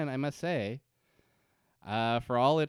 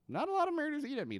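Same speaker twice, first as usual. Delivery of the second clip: mock Ben; much faster than usual. Voicing Ben, joking.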